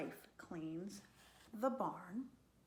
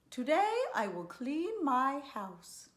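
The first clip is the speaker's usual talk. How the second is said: higher, louder farmer's wife; eager announcement; 7 semitones higher, 9 dB louder than usual. A narrator's reading. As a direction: announce it with loud, high resolve.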